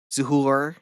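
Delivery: mimicking a US Northeast accent on Zuhur; imitated Northeast accent. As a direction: Zuhur with a mock New York R. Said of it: "such a fucking Northeast accent".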